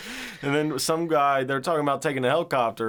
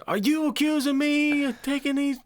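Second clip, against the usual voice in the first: much higher, laughing mock villain line; movie villain quote. Quoting the chicken scene to a friend in a high laughing voice. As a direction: squeak out the accusation through laughter.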